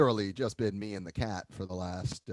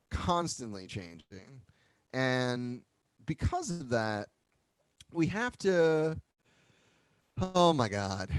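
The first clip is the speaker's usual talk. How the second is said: out of breath. Real, not acted. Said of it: "still catching my breath from class".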